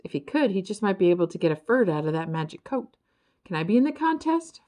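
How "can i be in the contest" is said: high eager blurt. A narrator's reading. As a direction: blurt it out hopefully. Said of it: "Ferd blurted".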